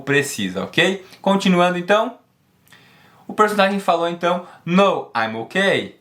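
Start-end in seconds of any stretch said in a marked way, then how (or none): 4.6-6.0 slow model phrase. Shown as a demonstration. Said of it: "Perceba como fica muito mais natural você juntar".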